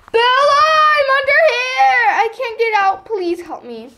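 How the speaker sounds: pleading call. Acted. Stuck, calling for help.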